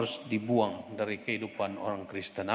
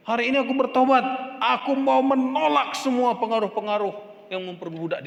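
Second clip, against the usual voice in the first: seruan pertobatan; 6 semitones higher, 4 dB louder than usual. Real, not acted. Pertobatan berulang makin keras.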